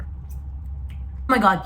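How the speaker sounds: slow breathless whisper; awed whisper. Real, not acted. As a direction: whisper it in awe. Tastes the dough.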